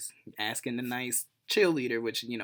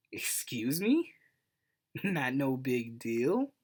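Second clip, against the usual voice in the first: incredulous; 3 dB louder, much slower than usual. Retold or imitated. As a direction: stretch it out, offended and amused. Girlfriend says kiss no big deal.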